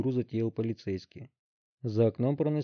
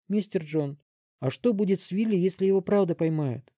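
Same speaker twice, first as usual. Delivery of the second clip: put-on higher worried boy's plea; plaintive; 7 semitones higher than usual. A narrator's reading. Roy asking the chief about Willy, plaintive. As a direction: ask pitifully for a friend. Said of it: "жалобно спросил Рой".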